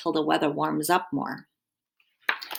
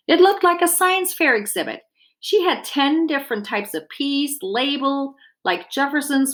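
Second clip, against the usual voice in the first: lively picture-book read-aloud; reading to children. A narrator's reading. Dietitian reading a garden story to children, lively storytelling. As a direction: read it warmly to a class of kids.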